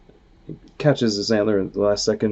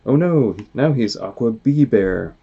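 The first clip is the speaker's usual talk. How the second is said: higher, louder, slowed alarmed cry; 3 semitones higher, 6 dB louder, slower than usual. Acted. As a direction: dread in every word. Alarm at mutated bear.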